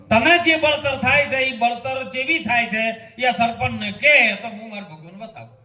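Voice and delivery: sadhu's challenge, high and urgent. Retold or imitated. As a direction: push the question back at him. Sadhu's retort in the story.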